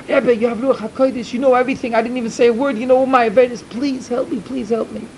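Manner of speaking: desperate pleading. Acted. Sinner begs the rebbe for help.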